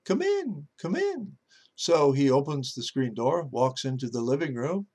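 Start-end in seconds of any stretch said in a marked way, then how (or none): 0.1-1.4 parrot voice. Acted. Parrot calling the pastor in from the kitchen, squawky. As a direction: call it out like a parrot.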